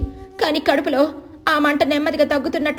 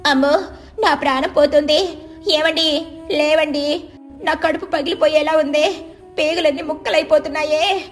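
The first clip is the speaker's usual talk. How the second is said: higher-pitched wailing in belly pain; acted agonized groaning, pitched up; loud moaning; 5 semitones higher than usual. A narrator's reading. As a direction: moan out a plea as if your stomach is bursting. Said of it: "కమల గట్టిగా మూలుగుతూ".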